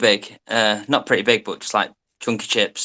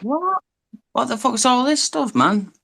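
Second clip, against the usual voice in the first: baffled; 13 semitones higher than usual. Real, not acted. Baffled by US menu.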